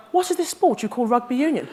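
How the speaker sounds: mock posh English accent, lightly done. Maggie mimics posh schoolgirl asking teacher, mock posh accent. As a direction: ask it like a posh English lady. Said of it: "Not in that posh accent".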